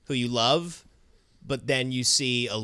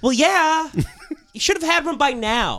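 laughing mock scolding; 12 semitones higher, 4 dB louder than usual.

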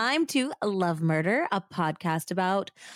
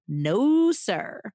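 put-on Southern accent. Narrator adding Texas flavour to the story, hammed-up Southern accent. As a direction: throw in a hammed-up Southern twang. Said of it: "use a terrible Southern accent".

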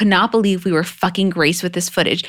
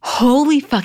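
a higher, excited holy fuck; amazed exclamation; 6 semitones higher, slower than usual. Retold or imitated. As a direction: blurt it out in amazement. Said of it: "he's like".

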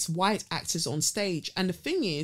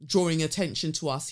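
lightly imitated Scouse man; a hint of a Scouse retort; Scouse accent. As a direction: quote him with a touch of Scouse. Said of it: "he says in his Scouse accent".

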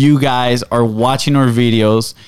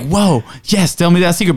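higher, eager mock reaction; a listener begging to hear more; excited listener; 5 semitones higher than usual. Shown as a demonstration. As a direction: act hooked by the secret. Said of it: "People might be like".

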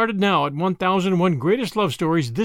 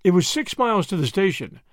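plain reading voice

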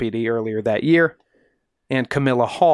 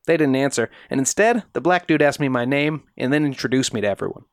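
retelling a witness in character; neighbor's voice; 2 semitones higher than usual. Retold or imitated. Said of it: "the seventeen-year-old neighbor says".

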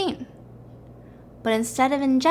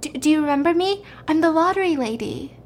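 lightly put-on higher female voice; a hint of a woman's voice, pitched up; 4 semitones higher than usual. Lottery lady to man found unconscious, lightly voiced female. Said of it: "And the female voice says".

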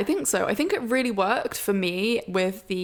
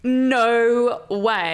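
surprised; 3 semitones higher, 6 dB louder than usual. Real, not acted. Reacts to surprise news.

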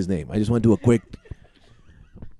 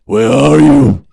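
slow loud call; 9 dB louder, much slower than usual. Acted. Batman calls out for father.

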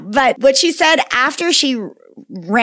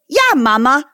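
put-on toddler voice; 4 semitones higher, slower than usual. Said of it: "she goes".

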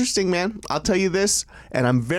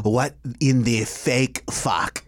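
slow, lower mock-French accent; 5 semitones lower, slower than usual. Reacting to fry trivia in a French accent. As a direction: lay on a fake French accent, slowly. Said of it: "we were doing the French accent".

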